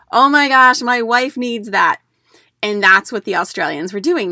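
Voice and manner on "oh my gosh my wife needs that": excited husband. Retold or imitated. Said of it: "the husband will say".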